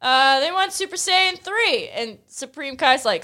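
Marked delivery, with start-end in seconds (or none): 0.0-1.9 Goku voice. Retold or imitated. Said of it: "he's like".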